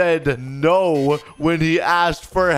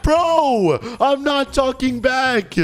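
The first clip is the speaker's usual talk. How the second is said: high-pitched exasperated complaint; indignant protest; 10 semitones higher, slower than usual. Acted. Student denying talking back to teacher, indignant protest. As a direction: protest it high, wronged and whiny.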